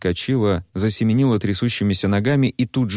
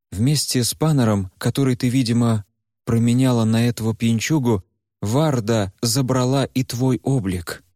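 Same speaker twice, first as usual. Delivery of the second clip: put-on a lightly raised, earnest young man's voice; Куйгарош; 4 semitones higher than usual. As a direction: talk to her gently but firmly. Куйгарош speaks to Varya. (спокойный, серьёзный голос Куйгароша)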